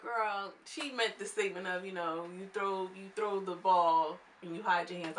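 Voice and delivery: a mild take on her choppy delivery; imitating Grandmama. Vlogger mimicking Grandmama's words for viewers, lightly imitating. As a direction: lightly mimic an old lady's garbled phrasing. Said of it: "I'm saying it just how she said it".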